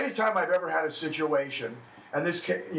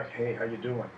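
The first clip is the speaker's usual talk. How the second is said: glum frown; 4 semitones lower, 4 dB quieter than usual. Shown as a demonstration. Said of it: "your eyebrows are gonna go down".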